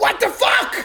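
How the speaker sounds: furious, shrill, very loud and high angry swearing. Voicing a driver stuck in traffic, cussing angrily. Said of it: "cussing out".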